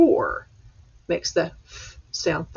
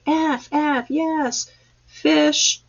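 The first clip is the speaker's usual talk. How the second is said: much higher mock cheer of excited kids; mock class shouting; 9 semitones higher, much slower than usual. Teacher imitating her class shouting the answer, high mock cheer. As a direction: play the whole class yelling the answer. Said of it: "Hopefully everybody's screaming".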